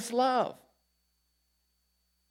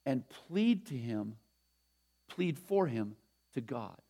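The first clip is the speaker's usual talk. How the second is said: solemn quote reading; 2 semitones lower, slower than usual. Acted. Reads a Bonhoeffer quote.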